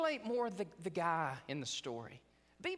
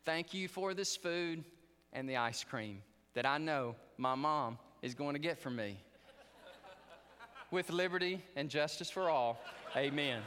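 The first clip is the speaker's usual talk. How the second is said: put-on child's prayer. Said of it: "And he said".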